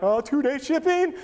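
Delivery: high, excited squeal of delight; mock excitement. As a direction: act thrilled at the parcel. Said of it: "all excited".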